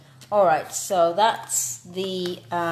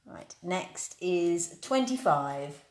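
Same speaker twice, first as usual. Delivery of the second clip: slow, drawn-out bingo number call; bingo caller; slower than usual. Acted. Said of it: "proper bingo calling".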